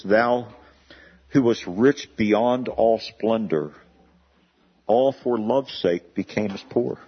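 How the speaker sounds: slow, measured carol verse; poem recitation. Acted. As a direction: lay out each line slowly, solemnly.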